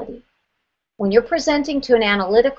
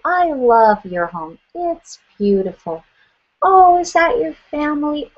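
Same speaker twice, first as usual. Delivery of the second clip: higher, sweet, gushing client voice; playing a gushing high S; 5 semitones higher than usual. Agent gushing to homeowner Debbie, higher and sweet. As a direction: lay on the syrupy friendliness. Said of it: "let's pretend you're a high S".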